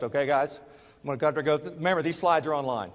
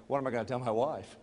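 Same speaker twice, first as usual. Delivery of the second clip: laughing panic; 3 semitones lower, 5 dB quieter, faster than usual. Retold or imitated.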